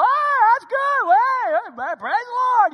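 high, loud astonished bystander voice; amazed onlooker. Retold or imitated. Gas station man reacts to the praying elders, astonished. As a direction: sound stunned and thrilled. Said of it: "this guy's like".

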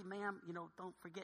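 very soft, timid reminder; sheepish. Acted. Creeping back up to the gate agent, sheepish. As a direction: barely dare to speak up, very softly. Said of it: "we're sheepishly".

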